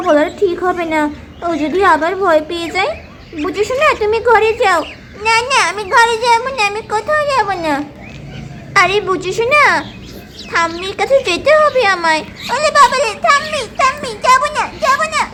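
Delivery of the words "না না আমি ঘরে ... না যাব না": put-on higher, panicked little boy's cry; panicked child. Boy refusing to go to ghost granny, higher panicked cry. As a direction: shriek in fear of granny.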